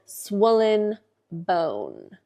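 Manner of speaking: "swollen bone" drawn out very slowly, each word stretched with disbelief; mock the diagnosis by drawing out "swollen bone" slowly; sarcastic air quotes. Telling viewers the doctors' diagnosis, slow sarcastic air quotes.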